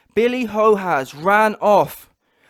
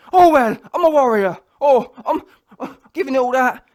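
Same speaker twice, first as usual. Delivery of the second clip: mocking warrior boast; 5 dB louder than usual.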